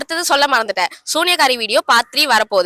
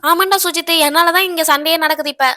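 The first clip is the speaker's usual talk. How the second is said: put-on young girl. Mother also voices young daughter.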